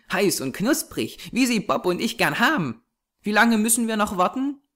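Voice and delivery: put-on high child's voice, chattering happily; eager little girl. A narrator's reading. Small girl picturing mother at heaven's gate, innocently eager. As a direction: bubble along in a small girl's high voice.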